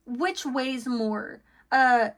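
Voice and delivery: slow, drawn-out snooty question; snotty, snooty. Acted. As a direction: imitate someone asking with mild attitude. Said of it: "someone say this in, like, a snotty way".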